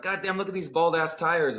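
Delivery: mock mom griping; mom's scolding. Son quoting his mother griping about tires. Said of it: "she's like".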